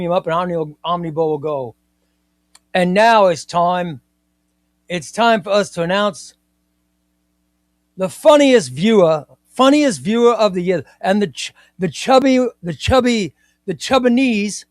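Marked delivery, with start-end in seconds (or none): 2.7-10.8 put-on Australian awards presenter; lightly hammed-up Aussie ceremony host; Omnibo's Australian accent. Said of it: "I was doing Omnibo's Australian accent". 11.0-14.6 higher-pitched put-on Australian presenter; hammed-up Australian awards announcer, pitched up; Omnibo's Australian accent. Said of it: "I was doing Omnibo's Australian accent".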